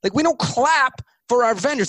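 mock-outraged boss; mock indignant board chair. Board head scolds the pitch team.

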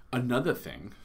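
thick New York accent on another thing. Shown as a demonstration. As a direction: say it like a New Yorker. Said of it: "that was my New York accent".

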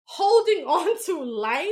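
laughing. Real, not acted. Venting, laughing at own exasperation.

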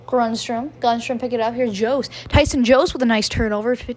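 brisk hockey play-by-play call; live play-by-play. Acted. Fan calling a hockey game to viewers, brisk play-by-play.

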